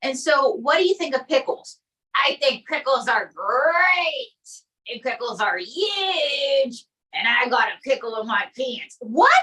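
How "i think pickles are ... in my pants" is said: Trump impression. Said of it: "Donald J Trump".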